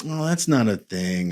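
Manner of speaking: lightly acted brush-off from an inner voice; dismissive. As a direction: wave it away, mildly dismissive. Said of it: "There's a dismissive".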